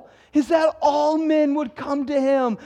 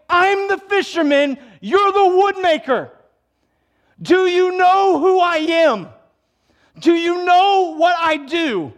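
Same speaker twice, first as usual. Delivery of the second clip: indignant Peter; 5 semitones higher, 4 dB louder than usual. Acted. Peter pushing back at Jesus.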